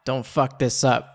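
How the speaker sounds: laughing. Real, not acted. Laughing while warning the character.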